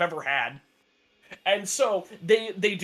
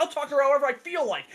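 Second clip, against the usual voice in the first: quick, higher-pitched mock argument; mock-defiant comeback, rushed and pitched up; retold angry retort; 6 semitones higher, faster than usual. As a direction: fire back defiantly, without really shouting. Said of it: "they get in a shouting match".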